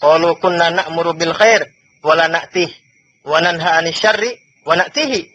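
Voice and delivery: slow, measured chanting of Arabic text; Arabic recitation. Acted. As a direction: intone the hadith slowly and evenly.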